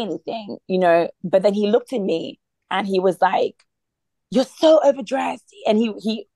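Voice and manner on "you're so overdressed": higher-pitched, mildly upset complaint; upset husband. Retold or imitated. Husband objecting to wife's dress, mildly upset. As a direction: imitate a husband's exasperated objection. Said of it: "just got really upset".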